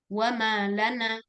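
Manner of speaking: "wa malana" slowly, weight on "ma" before "lana"; slow "wa malana", split as wa-ma, lana; read as two words. Shown as a demonstration. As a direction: mark the word break in "wa ma / lana". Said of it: "tulis wa ma spasi lana, cara membacanya".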